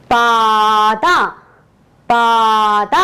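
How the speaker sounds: പാത met lange eerste aa; long a in paatha. Shown as a demonstration. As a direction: stretch the first vowel of പാത. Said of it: "അപ്പൊ എന്ത് വന്നു?".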